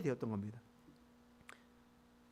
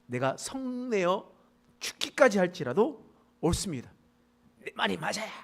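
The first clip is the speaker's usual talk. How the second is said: stubborn, louder talking back; defiant retort; 2 semitones higher, 4 dB louder than usual. Retold or imitated. Jonah talks back to God, mock defiant. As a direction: dig in, insist you're right. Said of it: "요나는 뭐라고 얘기해요".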